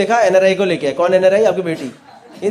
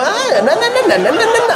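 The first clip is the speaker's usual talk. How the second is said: high sing-song na na na; mock European accent; 12 semitones higher than usual. Comedian joking he is touring Europe, high sing-song mock accent. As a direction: bounce the syllables up high like a tourist. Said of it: "ऐसे लग रहा है Europe घूमने गया हूँ".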